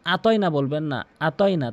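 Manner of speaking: আতয়না with a plain আ; dropped ayn. Shown as a demonstration. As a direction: leave the throat sound out of আতয়না. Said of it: "আইনের উচ্চারণটি বাদ যাবে". (আতয়না-র আ আইন ছাড়া)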